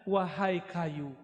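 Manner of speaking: slow, mildly soothing call; lightly acted Prophet soothing a tree, drawn out; soothing address. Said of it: "Nabi elus-elus ditanya". (sapaan lembut dan perlahan)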